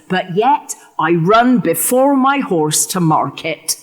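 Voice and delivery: slow, savoured stage delivery; Richard's line. Acted. Richard telling the audience his plan, slowly relished. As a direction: relish it as the villain confiding.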